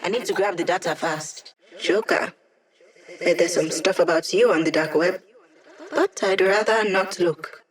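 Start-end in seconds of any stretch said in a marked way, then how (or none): 1.8-2.3 sing-song call. Acted. Calling out to Joker.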